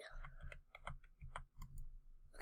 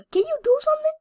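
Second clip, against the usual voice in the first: whispering; 13 semitones higher, 4 dB louder, much faster than usual. Real, not acted. Pleading with game character.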